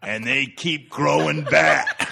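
mock-earnest gripe, cracking up; laughing farmer impression. Son imitating farmer griping about thistles, laughing.

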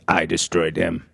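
flat stiff robot voice; toy robot voice. Pretend. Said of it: "Eamon Bot".

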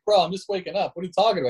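retelling being woken and baffled; groggy disbelief. Retold or imitated. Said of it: "I'm like".

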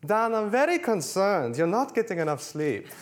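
put-on Arianna's Greek accent. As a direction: affectionately mimic a boss's Greek accent. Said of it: "in her trademark a-, accent".

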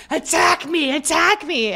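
high-pitched imitated frenzy; mock wild demand. Imitating Judith pouncing on him, mock wild demand. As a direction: throw yourself into a hammed-up plea. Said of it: "she just grabs and is like".

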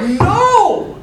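high, laughing mock mom; mom saying no. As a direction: squeal a mother's flat refusal. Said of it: "the mom is like".

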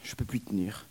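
whispered moan. Acted. Nurse moaning from aching breasts, whispered. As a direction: breathe it out in pain. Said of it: "elle gémit".

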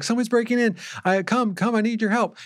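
retold panic, kept light; mock panicked caller. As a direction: lightly imitate a frantic call for help. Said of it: "she starts freaking out".

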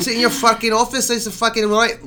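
high, loud sweary Scottish caricature; Scottish accent. Shown as a demonstration. Host demonstrating an accent that needs swearing, hammed-up Scottish accent. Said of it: "I can't do without saying".

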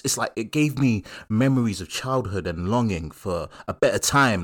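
London slang voice putting on wine-snob airs; mock a street guy describing a fine vintage; lightly voiced South London road man tasting wine; road man wine critic. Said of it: "you'll never have a road man, like, talking like that".

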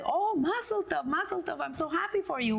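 gushing mazel tov; delighted congratulations. Acted. Friend congratulates in joke.

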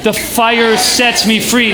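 slow, projected group chant; drawn-out, rising-energy declaration; really loud. Shown as a demonstration. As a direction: call it out for the whole room. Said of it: "really loud".

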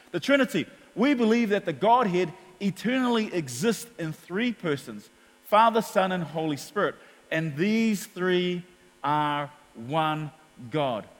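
a measured recital of the creed; formal reading. Acted. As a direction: read out slowly and solemnly. Reading statement of faith.

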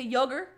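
"yoga" ending in an exaggerated "er"; Australian pronunciation. Shown as a demonstration. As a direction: say "yoga" as "yoger", mock-Australian. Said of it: "when they say yoga, they say".

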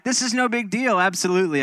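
high-pitched, mock-breezy reassurance; kindly reassurance. Pastor imitating his crushed friend playing down the crash, kindly reassuring. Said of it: "but he's so kind".

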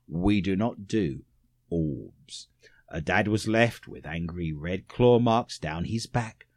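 low whispered ghost-story read; spooky whisper. Acted. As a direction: creep them out in a whisper. Spooky ghost round reading.

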